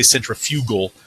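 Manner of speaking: centrifugal said sen-tri-FYOO-gul; "centrifugal" with a long, stressed FYOO in the third syllable; stress on wrong syllable. Shown as a demonstration. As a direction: put the emphasis of "centrifugal" on FU. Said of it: "pronounce it with the emphasis on the wrong syllable".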